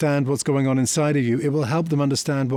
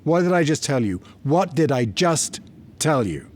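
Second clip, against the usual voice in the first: mild mock scolding, slowing on the repeat; a hint of a father losing his temper; retold angry outburst; 2 semitones higher than usual. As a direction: replay the snap at his daughter, understated. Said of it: "flew into anger".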